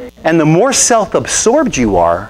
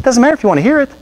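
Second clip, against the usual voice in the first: much higher, insistent preacher pleading; retold exhortation; 8 semitones higher than usual. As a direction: press the truth on her, pitch up high. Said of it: "I said".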